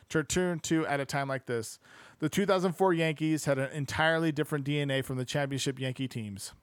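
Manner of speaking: steady audiobook-style reading; narrating a sports history book aloud; book narration. Acted. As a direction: read the passage out evenly to listeners.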